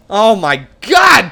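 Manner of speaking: slow, drawn-out shout of dismay; stretched yell of disbelief. Real, not acted. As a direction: groan it out loud as they score. Reacting to goal against.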